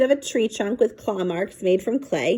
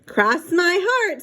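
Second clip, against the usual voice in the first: slow earnest promise; 10 semitones higher, much slower than usual. A narrator's reading.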